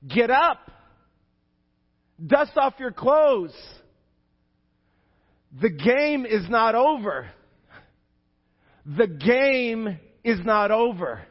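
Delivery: loud, slow, high rallying cry; preaching call. Acted. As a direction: command them to rise. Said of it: "Jesus would say to you today".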